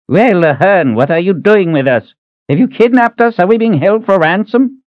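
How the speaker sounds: put-on high, agitated old man's voice; alarmed old man. Old Reuben grilling the big stranger, high and alarmed. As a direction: fire off suspicious questions like a fussy old man.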